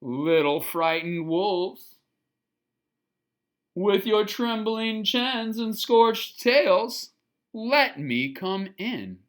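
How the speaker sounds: slow, coaxing big bad pig; pig at the door. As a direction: lure them out slowly and sweetly. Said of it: "He rang the bluebell at the door and said".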